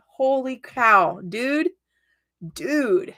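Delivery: stunned delight; amazed. Real, not acted. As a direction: let the wonder stretch out. Amazed reaction to card.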